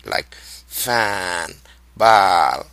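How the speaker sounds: "fan" and "bal" with long, stretched vowels; drawn out vowels. Shown as a demonstration. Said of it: "spend some time take stretching the vowels".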